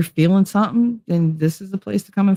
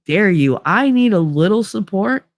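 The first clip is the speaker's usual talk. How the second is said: retold indignant outburst; 5 semitones higher than usual. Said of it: "I was like".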